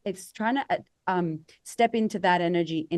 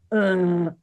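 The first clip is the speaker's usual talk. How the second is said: louder, glum "Ugh"; mock groan; 6 dB louder than usual. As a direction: sound drained and unwelcoming. Acting a low-energy vibe.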